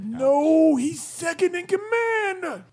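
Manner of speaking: exasperated goblin, straining it out; strained goblin voice. Acted. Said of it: "that accent and the drained voice".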